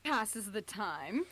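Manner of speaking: slow, lazy villain voice; slow villain line. Acted. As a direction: drag it out like a bored villain. Voices the Master in story.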